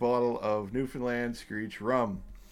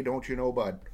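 light cartoon Canadian accent, folksy tag question. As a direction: play up a jokey Canadian "Don't you know, bud?". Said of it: "the cartoon Canadian accent voice".

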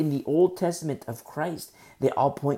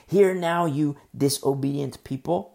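louder, stern HEAR now; louder scolding paraphrase; loud rebuke; 5 dB louder than usual. Shown as a demonstration. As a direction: proclaim the rebuke firmly. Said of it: "That's how it translates".

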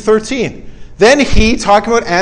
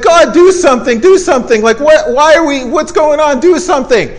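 higher-pitched imitation of panicked praying; mock pleading prayer; 5 semitones higher than usual. People crying to God for help at the sea, mock pleading. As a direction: plead with God in short, repeated bursts, acted out. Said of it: "Praying. Like what we think".

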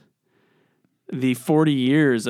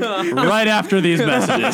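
TV announcer voice; 8 semitones higher, 4 dB louder than usual. Pretend. Mock TV host cliffhanger.

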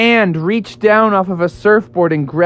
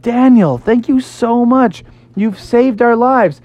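grateful; 7 semitones higher than usual. Acted. Rescued friends thank Daniel.

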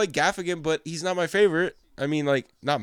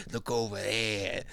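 slow mock TV host; 6 semitones lower, 8 dB quieter, much slower than usual.

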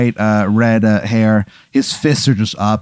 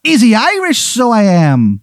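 bad Irish accent; 10 semitones higher than usual. Leprechaun ghost repeating his catchphrase, bad Irish accent. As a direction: fake leprechaun Irish lilt. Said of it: "His, his accent is terrible".

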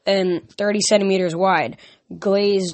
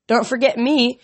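higher purring monster voice; lightly voiced purring creature; purred; 5 semitones higher, 4 dB louder than usual. A narrator's reading. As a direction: purr it teasingly. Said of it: "the Imposa purred".

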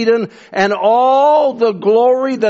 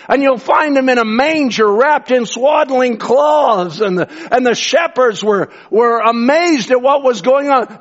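raised, ringing sermon delivery; fervent preaching; 5 semitones higher than usual. Acted. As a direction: preach it with building fervour. Preaches the nativity at force.

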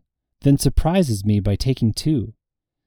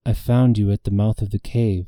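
monotone. Acted. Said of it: "she says in her monotone".

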